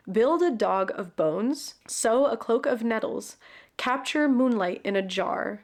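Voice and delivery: measured blurb reading; storyteller's read-aloud with deliberate phrasing; story narration. Real, not acted. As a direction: read out a fantasy book's back cover. Reads the book's blurb aloud.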